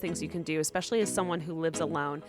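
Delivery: composed host-read commercial; podcast ad read. Acted. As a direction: deliver the ad copy evenly and clearly. Reads a sponsor ad.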